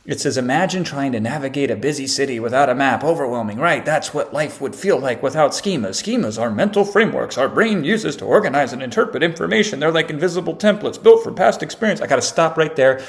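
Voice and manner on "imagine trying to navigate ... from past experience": put-on article-reading voice; mock read-aloud. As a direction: read it out in an exaggerated up-and-down lilt. Reads out ChatGPT's generic article.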